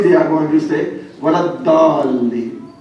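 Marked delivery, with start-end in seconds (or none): 1.2-2.7 Saudi recitation accent, long-drawn DALLIN; slow Saudi-accented recitation of "Dallin". Shown as a demonstration. Preacher shows listeners how Saudis recite it, Saudi accent. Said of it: "if you go to, uh, Saudi".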